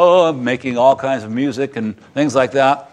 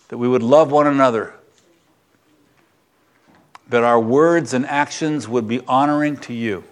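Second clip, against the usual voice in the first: earnest pastoral prayer, slowing on key lines; closing prayer at the end of the sermon. Acted. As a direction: lead the church in prayer, humble and sincere.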